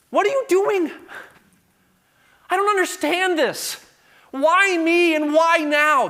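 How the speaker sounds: high, loud, slow pleading wail; anguished cry. Retold or imitated. Psalmist crying out to God, high, loud and slow. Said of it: "the psalmist under inspiration says".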